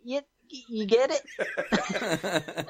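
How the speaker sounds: faltering mock Australian accent; Aussie attempt slipping towards laughter. Contestant losing the thread of the argument, failing Australian accent. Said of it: "in Australian accent".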